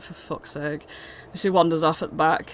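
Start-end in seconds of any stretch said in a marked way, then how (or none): 0.0-0.8 exasperated sigh. Acted. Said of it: "sighs as if to be like".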